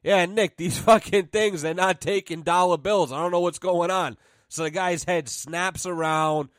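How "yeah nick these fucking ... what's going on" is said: loud, higher mock phone chatter; fake phone call to Nick. Pretending to phone Nick, loudly so the stranger hears. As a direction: play it up loud so the guy overhears. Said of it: "I'm pretending to talk to Nick".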